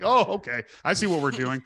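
a knowing, amused oh okay; caught-on surprise. Retold or imitated. Realizing the gay-sex question.

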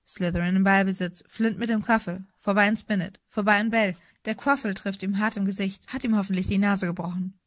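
lebhafte Sportreportage; Spielkommentar. A narrator's reading. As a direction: das Spiel zügig und kräftig durchsagen. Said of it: "Lee kommentierte immer noch das Spiel". (lebhaft kommentierend)

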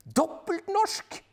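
very high, loud, slow shout rising on norsk; wife cheering a Norwegian double; joyful shout. Acted. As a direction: stretch out the cheer. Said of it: "roper Paprika".

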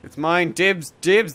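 whiny, grabby dibs; possessive whining. Acted. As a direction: whine that it's yours. Claiming loot from friends.

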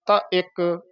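ਤ ਇੱਕ with a slight break after ਤ; small pause. Shown as a demonstration. Teacher warning not to join words, slight pause. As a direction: keep ਤ apart from ਇੱਕ. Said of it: "ਇੱਥੇ ਥੋੜ੍ਹਾ ਠਹਿਰਾ".

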